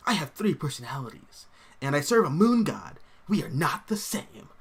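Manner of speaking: lightly voiced comic-book antihero; measured, lightly put-on character voice; Mark Spector. Reading a viewer's quote as the antihero, lightly acted voice. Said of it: "Mark Spector kind of voice".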